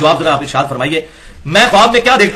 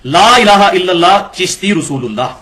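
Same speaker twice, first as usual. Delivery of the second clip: slow, measured recital of the altered words; altered creed recitation; slower than usual. Retold or imitated. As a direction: intone it slowly as the saint's new version. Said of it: "تو اب ایک بار اس کلمے کو یوں پڑھ".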